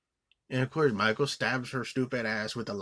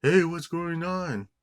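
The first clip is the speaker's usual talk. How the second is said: raised, slow call of an imagined neighbor; 7 semitones higher, 3 dB louder, slower than usual. Pretend. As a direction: call out to ask what's happening. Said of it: "you don't even hear anybody yelling outside".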